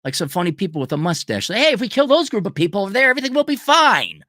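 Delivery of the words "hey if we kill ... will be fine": mock villain. Mocking dictator's pitch.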